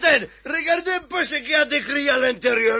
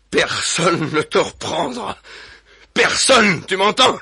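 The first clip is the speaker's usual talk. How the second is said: louder, stressed warning; loud threat to his captive wife; menacing; 3 dB louder, slower than usual. Acted. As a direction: threaten her with each word. Furax threatens his captured wife.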